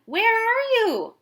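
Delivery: slow, high, loud call; father searching the boat, shouting. A narrator's reading. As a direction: call out into the storm. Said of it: "shouted Tim's dad".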